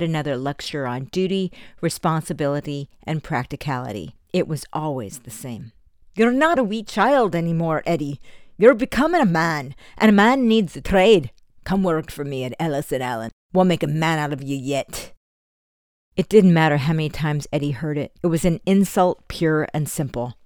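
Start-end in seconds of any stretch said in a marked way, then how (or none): 6.1-15.1 a lightly voiced stern Scottish father lecturing; stern foster father. Foster father pressing Eddie to take a trade, lightly voiced stern lecture. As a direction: lay down the law to your foster son, firmly.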